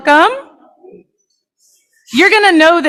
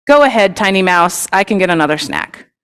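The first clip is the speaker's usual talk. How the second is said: a touch lower, a lion shrugging off a snack; casual big-cat indulgence, only slightly lower; lightly voiced lion; 5 semitones lower than usual. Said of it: "Like, Okay".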